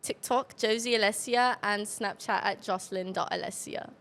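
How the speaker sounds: put-on measured British-accented social plug. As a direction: give your handles in a British accent. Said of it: "Oh, in my British accent".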